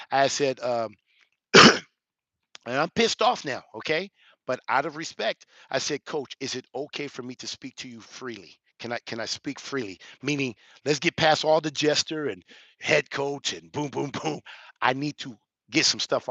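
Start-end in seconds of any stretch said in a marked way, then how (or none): 6.0-10.0 respectful ask. Retold or imitated. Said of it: "now this is how I said it".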